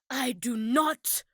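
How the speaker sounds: gasping, offended denial; slow, wounded pride; mock outraged gasp then slow denial; righteous indignation. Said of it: "the righteous indignation when she goes".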